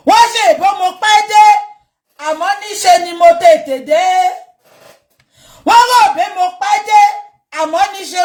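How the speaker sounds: quick, high, mocking sing-song; taunting. Real, not acted. Speaker taunting those who thought he came late, mocking sing-song. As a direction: gloat at the doubters.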